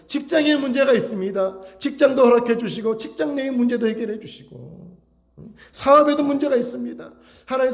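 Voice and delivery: high, insistent run of petitions; crying out in prayer. Shown as a demonstration. Believer begging God for children, work and business, crying out. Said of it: "그때 우리는 부르짖어야죠".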